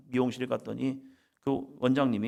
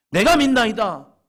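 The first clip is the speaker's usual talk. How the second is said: sudden loud exclaimed confession; a father's desperate loud cry; loud cry of faith; 10 semitones higher, 11 dB louder than usual. Acted. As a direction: cry it out with all your heart. Preacher voicing the father's cry.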